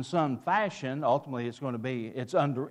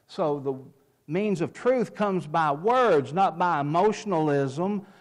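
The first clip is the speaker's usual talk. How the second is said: louder, building preacher's emphasis; preaching on a roll; 4 dB louder, slower than usual. Real, not acted. Preacher caught up in his point to the congregation, fervent. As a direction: hammer each "not by" like a pulpit crescendo. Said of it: "I was getting on a roll".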